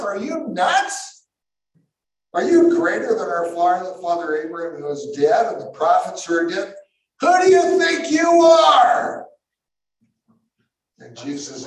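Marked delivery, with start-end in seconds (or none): 0.0-4.8 mock incredulous. Crowd mocking Jesus as crazy, incredulous sneer. 7.2-9.3 much higher, loud outraged demand; indignant shout. Acted. Angry crowd shouting at Jesus in the temple.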